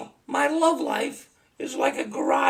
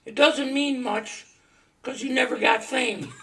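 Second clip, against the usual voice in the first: reading a poem. Acted. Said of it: "I wanted to read you a poem".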